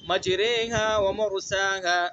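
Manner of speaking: مجریہا ومرساہا slow, vowel between a and i; imala vowel. Shown as a demonstration. Teacher modelling imala in the verse. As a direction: draw out مجریہا with the middle vowel. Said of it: "دونوں کے درمیان کا پڑھنا ہے".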